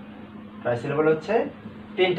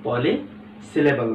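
slow answer; 3 dB quieter, much slower than usual. Shown as a demonstration. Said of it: "সেগুলোকে কি বলা হবে?".

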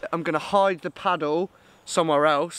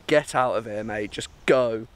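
lightly voiced gruff swan; 7 semitones lower than usual. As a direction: play the swan shooing him off, a touch lower. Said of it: "he was like".

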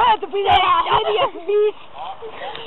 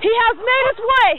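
excited shout; 5 semitones higher than usual. Acted. Live hunt commentary, calling out.

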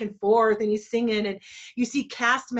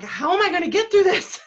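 choked up; 10 semitones higher, 8 dB louder than usual. Retold or imitated. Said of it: "I'm getting choked up".

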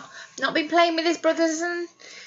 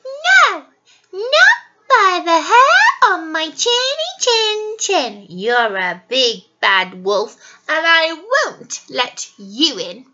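high loud defiant squeal; yelling pig; 3 semitones higher, 4 dB louder than usual. Acted. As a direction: shout it back defiantly.

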